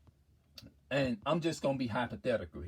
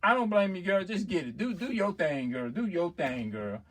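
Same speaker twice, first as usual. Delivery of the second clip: put-on animated girlfriend voice, often higher; cheering her on; 3 semitones higher than usual. Girl backing her friend about the money, acted cheering. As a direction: hype up your friend, acted. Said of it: "the other girl will be cheering the other girl on".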